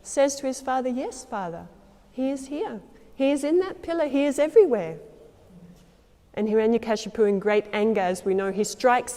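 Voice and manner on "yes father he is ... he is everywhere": calm reply. Retold or imitated. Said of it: "And Prahlad calmly".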